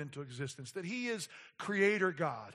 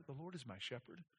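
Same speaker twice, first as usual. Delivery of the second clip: hushed, much softer reading; gentle quiet reading; 4 semitones lower, 14 dB quieter than usual. Shown as a demonstration. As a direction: say it calmly and very softly. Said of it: "We could say it very quietly".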